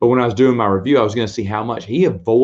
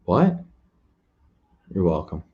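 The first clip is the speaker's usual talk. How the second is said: mock-fretful droid yelp; C-3PO impression; 3 semitones lower than usual. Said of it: "Here's three P O".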